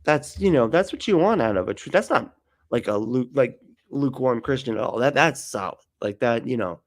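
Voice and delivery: casual hammed-up Musk agreeing; mock breezy Musk. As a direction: shrug it off like it's no big deal. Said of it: "Musk added".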